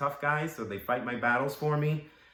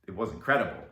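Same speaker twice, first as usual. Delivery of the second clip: amused; 3 semitones lower, faster than usual. Acted. Laughs recalling being dressed up.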